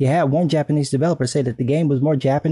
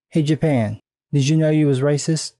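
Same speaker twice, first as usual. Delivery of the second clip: sassy teasing voice, a touch far; mock sassy. Teasing Japan in a mock sassy voice. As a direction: tease the whole country.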